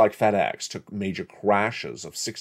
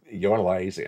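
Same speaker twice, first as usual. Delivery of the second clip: said with a smile. Shown as a demonstration. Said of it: "I'm gonna say that with a smile".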